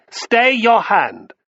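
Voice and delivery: high, loud, drawn-out order; commanding intervention. A narrator's reading. Guest Crassus stops the host's flogging, commanding. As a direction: halt him slowly with loud authority. Noble halts the punishment.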